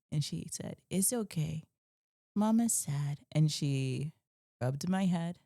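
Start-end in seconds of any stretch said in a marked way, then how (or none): 0.9-3.2 small voice rising higher at the end; lightly voiced toddler soothing mama. Daughter soothes her crying mother, in a small toddler voice.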